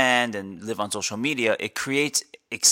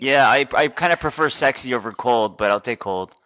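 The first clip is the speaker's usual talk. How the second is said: rough, stuffy morning voice; just woke up, voice still rough; 5 dB louder than usual. Real, not acted. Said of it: "You sound like you have a cold".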